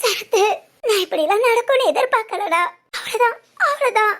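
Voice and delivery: tearful, sobbing complaint; crying. Acted. Woman tells Sarathu how Siddharth broke her trust, crying. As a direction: pour it out through tears. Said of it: "அழாதடி".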